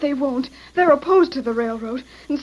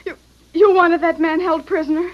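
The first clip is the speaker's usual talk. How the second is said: stammering, close to tears; tearful; 3 dB louder than usual. Acted. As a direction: choke out the question. Distressed confession.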